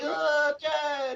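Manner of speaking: very high, drawn-out, whiny little voice. Mocking someone the speaker says sounds whiny, the speaker imitates him: mocking whiny voice. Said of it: "he sounds like a whiny little bitch".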